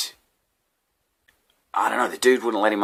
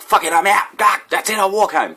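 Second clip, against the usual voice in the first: high, loud fed-up sigh of a voice; mock exasperation; 14 semitones higher, 6 dB louder than usual. Me giving up on the bus, mock exasperation. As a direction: throw up your hands comically. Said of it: "I wasn't just like".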